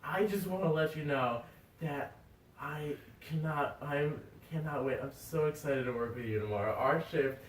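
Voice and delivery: a lightly played drunk phone call; drunk brother. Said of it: "He goes".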